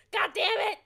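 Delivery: loud burst of frustration; exasperated outburst. Real, not acted. Player cursing at the game, exasperated outburst.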